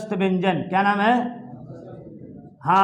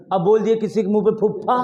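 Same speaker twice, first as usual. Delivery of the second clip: laughing, fast; faster than usual. Retold or imitated. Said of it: "मान लीजिए सतुआ खा लिए हैं".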